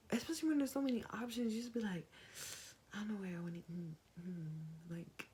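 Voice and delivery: a hushed aside, words breathed out fast; whisper. Real, not acted. A girl confides to guys, in a quick whisper. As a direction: let it slip out in a quick whisper, as if confessing. Confiding about being indecisive.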